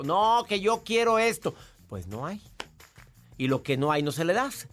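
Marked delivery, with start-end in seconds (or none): 0.0-1.5 put-on demanding child. Parent imitates a child refusing limits, mildly insistent protest. 1.9-2.4 low, quiet refusal; firm parent. Acted. Parent answers a child demanding sweets, quietly firm.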